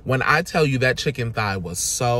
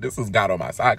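delighted. Retold or imitated. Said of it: "I was like".

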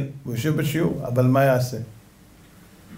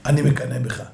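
low, tender admission; gentle rabbi's fondness; loving; 6 semitones lower than usual. Acted. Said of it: "באיזה אהבה".

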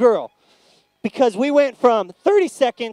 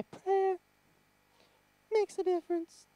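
weird voice; 8 semitones higher, 10 dB quieter than usual. Shown as a demonstration. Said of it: "why do you guys talk like that".

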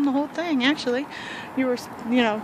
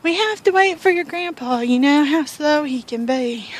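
retold grandma's scream; 6 semitones higher, slower than usual. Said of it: "she screams to the truck".

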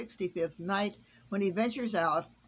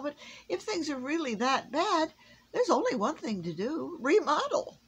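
decisive Santa; 9 semitones higher, 4 dB louder than usual. A narrator's reading. Santa decides.

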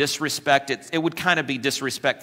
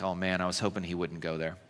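congregant's groan; 8 semitones lower, 10 dB quieter, faster than usual. Retold or imitated. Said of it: "You're like".

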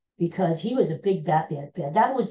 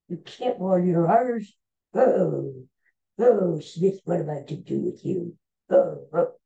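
disappointed professor. Retold or imitated.

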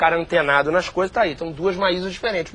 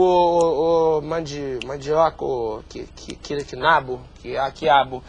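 low, fading senile mumble; confused old man; 6 semitones lower, slower than usual. Acted. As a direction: fumble words like a very old man. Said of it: "simular o processo de envelhecimento".

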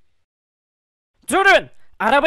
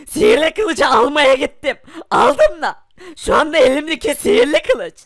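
crying. Acted. Poor friend confesses to rich one, crying. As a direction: sob out the words, voice strained. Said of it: "Neden ağlıyorsun?".

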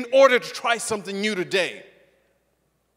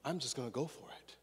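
put-on child's simple resolve; 7 semitones lower, 19 dB quieter, faster than usual. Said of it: "from a perspective of".

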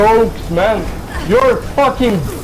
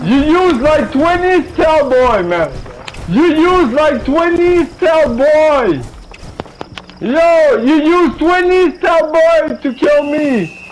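higher, mocking taunt, leaning on "twenty"; 5 semitones higher than usual. Real, not acted. Mocking rival in game chat.

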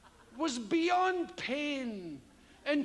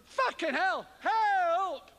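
hammed-up film panic, louder at the end; mock a movie victim's yell; movie-style cry for help; 4 semitones higher, 4 dB louder, much slower than usual. Mocking movies, hammed-up panic cry for help. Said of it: "It's not like that at all".

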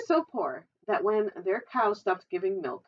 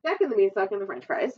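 announcing the title, faster; title read; 3 dB louder, faster than usual. Acted. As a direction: read the title aloud with flourish. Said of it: "title read out".

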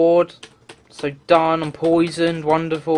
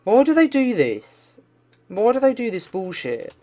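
angry complaint; 4 semitones higher than usual. Real, not acted. Rage at game design.

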